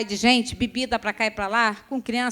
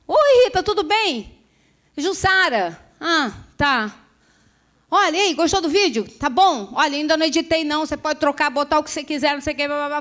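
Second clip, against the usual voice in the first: chirpy caller; 6 semitones higher, 5 dB louder than usual. Retold or imitated. Cheerful caller on the phone.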